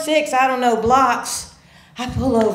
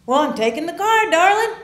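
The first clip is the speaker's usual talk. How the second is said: put-on smug drunk dad; 9 semitones higher, 4 dB louder, faster than usual. Father's reply voiced.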